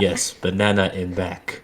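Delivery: lightly voiced broken caveman speech; blunt, simple caveman words; caveman talk. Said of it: "sound like caveman talk".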